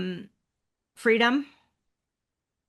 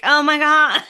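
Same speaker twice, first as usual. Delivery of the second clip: high, loud retold cry breaking into laughter; mock exasperation collapsing into laughs; laughing exclamation; 7 semitones higher, 6 dB louder than usual. Guest tells host about cat mishaps, laughing exasperation.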